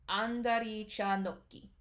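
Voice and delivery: 안다리 차 놓기 said quickly, 놓 cut short with a stop; clipped 놓 before 기 in 안다리 차 놓기; teacher modelling 안다리 차 놓기 in Korean; Korean kick name. Shown as a demonstration. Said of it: "there isn't quite a T in that no sound".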